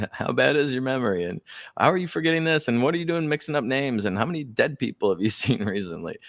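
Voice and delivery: hammed-up press hounding, fast at first; mock reporters shouting.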